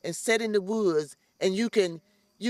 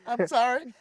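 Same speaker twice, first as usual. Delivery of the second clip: tearful little laugh before an apology; laughing through welling tears; emotional laugh; 3 semitones higher than usual. Real, not acted. Host getting choked up over the garden's impact, teary laugh. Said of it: "I get emotional".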